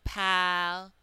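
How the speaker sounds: Pal-us split into two syllables, the second a reduced uh; deliberate syllable split for learners; demo pronunciation. Shown as a demonstration. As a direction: say Pal-us as PAL then a light uh-s. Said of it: "you heard the whole A sound".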